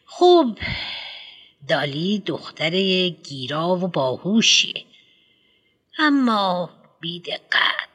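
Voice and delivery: a pompous headmistress lecturing a parent; fussy headmistress. Acted. Headmistress judges Dolly.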